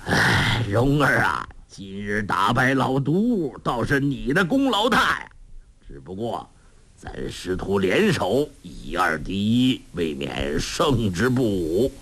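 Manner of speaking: lightly voiced old man, easygoing; a hint of a gruff old master; old beggar master. Old beggar master praises disciple.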